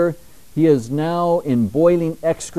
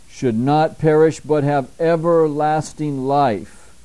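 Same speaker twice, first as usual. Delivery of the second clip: scripture reading; slower than usual. Acted. Preacher reads John 3:16 aloud.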